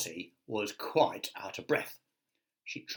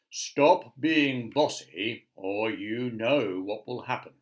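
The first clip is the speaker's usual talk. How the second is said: louder, slow stern telling-off; 6 dB louder, slower than usual. Acted. Wilfrid telling Miss Bossy off, slow and stern. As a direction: wag a finger with your voice. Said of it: "said Wilfrid sternly".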